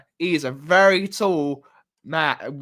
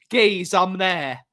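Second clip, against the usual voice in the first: louder, slow mock cockney; cockney Perch; 5 dB louder than usual. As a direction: put on a cockney mate's voice. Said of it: "Perchy goes all cockney".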